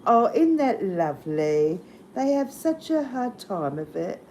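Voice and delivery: put-on light English accent, lilting rise; imitating a posh English lady, mildly; Pommy accent. Quoting a Monty Python lady in a light English accent. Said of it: "Yeah, in a Pommy accent".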